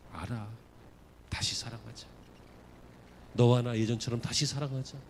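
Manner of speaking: soft, low, loving voice; tender Jesus. Acted. Jesus restoring Peter, soft and low, tender. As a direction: speak like a gentle master forgiving. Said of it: "알고 있어".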